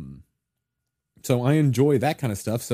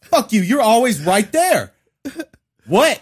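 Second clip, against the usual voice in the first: raised angry voice; 7 semitones higher, 3 dB louder than usual. Pretend. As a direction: snap back at him, louder. Acted quarrel between band mates.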